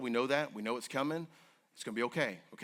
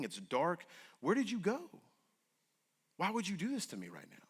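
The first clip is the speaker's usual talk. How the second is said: higher, pleading, rising frustration; frustrated cry to God; 6 semitones higher than usual. Retold or imitated. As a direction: cry out at God, demanding answers. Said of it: "I had a very frustrating convo with God".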